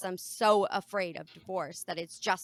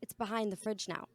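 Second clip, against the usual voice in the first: sweetly calm reply; 2 semitones higher, 4 dB quieter than usual. Retold or imitated. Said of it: "Literally, quote".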